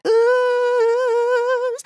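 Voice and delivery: high falsetto ooh, held long. Retold or imitated. Imitating Roger's falsetto for viewers, high ooh. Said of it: "contrasted against his falsetto".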